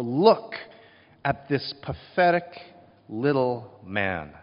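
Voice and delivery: slow, scornful, looking down on him; mock the prisoner as a pitiful little man; belittling sneer. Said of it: "with an intention to belittle".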